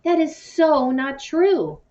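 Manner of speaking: high, loud and slow protest; emphatic denial. A narrator's reading. Jason insisting to Mia her mom was wrong. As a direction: knock the idea down hard. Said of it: "shaking his head furiously".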